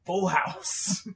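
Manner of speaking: high, loud gloating brag; gloating Thing. Retold or imitated. The Thing laying down a full house, gloating loudly. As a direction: crow over the winning hand. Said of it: "the Thing is like".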